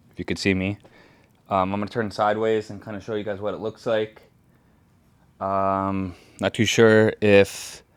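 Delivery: distant, off-mic voice; action cam audio. Real, not acted. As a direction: voice turned away from the mic. Turns sideways, helmet mic away.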